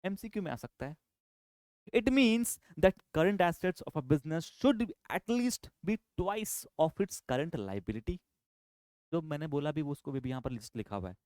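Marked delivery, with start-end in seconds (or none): 1.9-8.2 very slow, word by word, reading out a definition; slow dictation. Shown as a demonstration. Teacher dictating the rule to students, very slowly. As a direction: read it out slowly for the class to copy.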